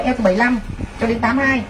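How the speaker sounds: rattled off fast after a slip; quick correction. Real, not acted. Seller correcting the waist sizes for customers, quick. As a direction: hurry through the fixed size range. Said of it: "xin lỗi".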